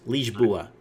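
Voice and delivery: Lisboa said slowly as "leezh-BOO-uh"; slow model of Lisboa for repeating, s as zh; Portuguese pronunciation. Shown as a demonstration. Host asking the listener to say it, Portuguese pronunciation. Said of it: "Say that".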